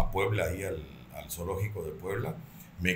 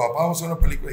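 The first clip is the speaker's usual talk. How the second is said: higher, louder daughter's voice; daughter asking; 7 semitones higher, 9 dB louder, much faster than usual. Retold or imitated. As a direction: ask "Papá" like the eager daughter wanting a movie. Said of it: "me dijo". (hija pidiendo, voz más aguda y fuerte)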